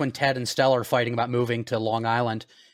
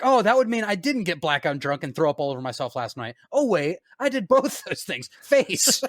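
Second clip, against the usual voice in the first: put-on drunk guy voice; 2 semitones higher than usual. Drunk Ted quote continued.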